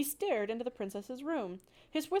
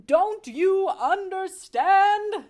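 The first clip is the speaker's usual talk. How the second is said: very high, loud, slow bellow; enraged father mouse shouting at wife; 10 semitones higher, 14 dB louder, much slower than usual. Acted. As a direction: roar it at her. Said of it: "shouted Lester".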